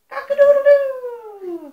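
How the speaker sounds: high, loud, drawn-out crow; long, ringing cock-a-doodle-doo; rooster crow. Acted. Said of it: "And a rooster?".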